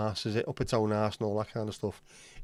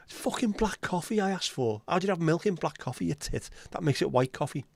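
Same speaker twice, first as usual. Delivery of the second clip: mock exasperation; 6 semitones higher than usual. Customer snaps at barista.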